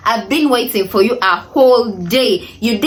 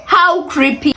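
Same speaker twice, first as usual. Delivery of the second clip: higher, emphatic how creepy; creeped out; 6 semitones higher than usual. Real, not acted. Telling viewers about the landlord at night, creeped out. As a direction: repeat it with a creeped-out lift.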